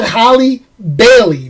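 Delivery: The surname said with a clear L; careful name correction. Shown as a demonstration. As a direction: stress the name to correct a mishearing. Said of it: "Is my accent coming out so bad".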